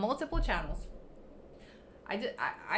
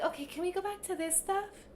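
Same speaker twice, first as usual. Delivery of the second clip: mock sly viewer; 8 semitones higher, 4 dB quieter than usual. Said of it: "quietly be like".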